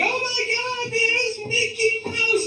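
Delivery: excited at Disney. Retold or imitated. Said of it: "one minute you're like".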